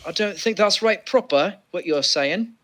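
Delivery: a light put-on British accent; hint of old-timey London English; mock British accent. Mock British accent teasing a podcast cohost. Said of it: "You sound too good at being British".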